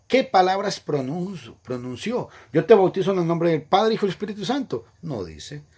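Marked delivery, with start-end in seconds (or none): 2.5-4.9 raised, louder solemn recitation; baptismal formula voice. Retold or imitated. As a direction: intone it like the officiant at the font. (fórmula bautismal, más alta y fuerte)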